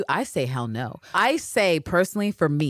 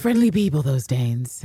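mock polite; 4 dB louder than usual. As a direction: say it as a dry, knowing tease. Mocking Anne Lister's line.

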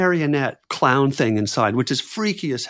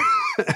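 burst of laughter. Real, not acted. Laughing at own edible confession.

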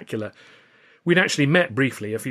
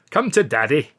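cooing; 4 semitones higher, 6 dB louder than usual. A narrator's reading. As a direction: coo it like a doting dad. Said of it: "he cooed".

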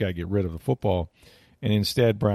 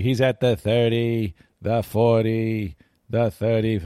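calm Summerall call; slower than usual. Retold or imitated. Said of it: "never rattled play-by-play guy".

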